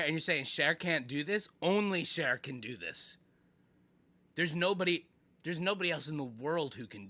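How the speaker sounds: loud, emphatic telling-off; indignant scolding. Real, not acted. Streamer scolding a chat member over a singer, indignant. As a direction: call out the offender and defend your idol.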